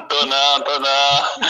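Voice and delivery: denying it while laughing. Real, not acted. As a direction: brush the tease off with a laugh. Caller laughs while answering the tease.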